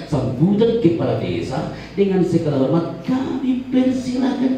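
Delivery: slow, formal announcer read; proper MC announcement. Shown as a demonstration. Village head showing the boy how to announce properly. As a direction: show the polite way to introduce him, slowly. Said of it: "kan bisa kau katakan".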